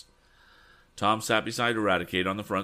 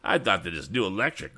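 lightly voiced scoffing bully; a hint of a mocking ringleader, playing to cronies; jeering young rival. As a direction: taunt with an altered character voice. Rival character jeers in story.

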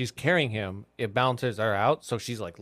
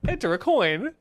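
higher canned machine prompt; automated machine voice; 7 semitones higher, 3 dB louder than usual. Retold or imitated. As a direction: say it like a recorded vending machine line. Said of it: "automated, like, voice functions it has".

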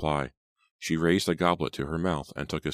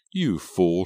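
louder, scornful put-down; mocking, emphatic dismissal; scornful declaration; 3 semitones higher, 6 dB louder than usual. A narrator's reading. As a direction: declare him a fool. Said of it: "she declared".

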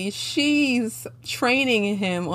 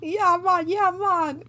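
higher, exaggerated Jamaican accent; mock Jamaican accent; 8 semitones higher than usual. Co-host joining in on the lover's bad Jamaican accent. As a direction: amp up a fake Jamaican accent. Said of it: "he kinda amped it up".

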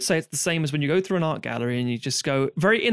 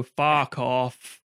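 dismissive magician; 4 semitones lower than usual. Retold or imitated. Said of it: "they would go".

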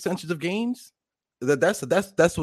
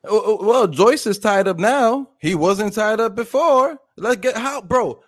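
heated; 5 semitones higher, 5 dB louder, slower than usual. Real, not acted. Heated argument about Joyce.

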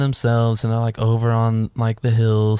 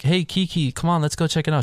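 higher-pitched imitated invitation; friendly coaxing; 7 semitones higher than usual. Tombo invites Kiki to join his friends, imitated friendly coaxing. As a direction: lightly play a friend calling someone to come along, pitched up.

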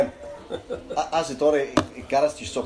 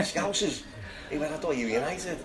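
higher, put-on Geordie accent; 4 semitones higher, 4 dB quieter than usual. Ex-player teasing the Scousers, imitated Geordie accent. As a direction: mimic a Geordie, pitched up. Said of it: "in his Geordie accent".

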